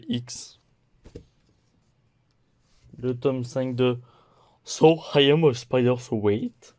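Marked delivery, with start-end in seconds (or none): 4.6-6.7 bad English accent. Real, not acted. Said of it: "Mon accent pourri en anglais".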